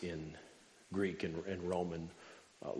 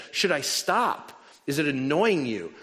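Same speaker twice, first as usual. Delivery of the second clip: raised-voice challenge to the crowd; insistent loud question; 6 semitones higher, 7 dB louder than usual. Retold or imitated. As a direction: call it out over the banging. Asking again over the banging.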